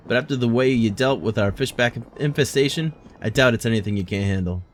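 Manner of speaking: lightly voiced hearty old sailor, a touch of British; gruff guild master. Streamer voicing guild master greeting the adventurer, lightly gruff. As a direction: read it like a bluff harbour guild boss, lightly.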